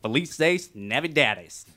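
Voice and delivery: Felices Navidades said slowly in careful Spanish; Spanish pronunciation. Shown as a demonstration. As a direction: sound out Felices Navidades syllable by syllable. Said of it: "how to say Merry Christmas in Mexican".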